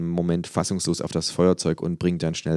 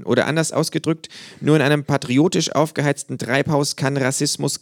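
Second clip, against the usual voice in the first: high, dry, know-it-all kangaroo; 9 semitones higher than usual. A narrator's reading. Kangaroo lecturing a flag-draped fan, high and dry. Känguru voice, held.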